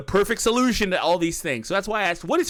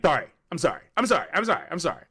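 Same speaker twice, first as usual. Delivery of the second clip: sarcastic apology; much faster than usual. Pretend. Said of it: "don't talk like that".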